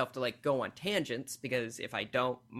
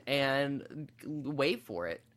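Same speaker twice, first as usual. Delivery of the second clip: normal talking voice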